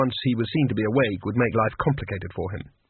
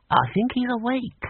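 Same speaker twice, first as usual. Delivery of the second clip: put-on high old voice; 11 semitones higher than usual. A narrator's reading. A wizard murmurs.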